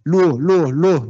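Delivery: lightly imitated singer calling LUO to the band; reggae singer. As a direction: Creole 'luo' like a reggae frontman. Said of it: "el cantante que hace luo".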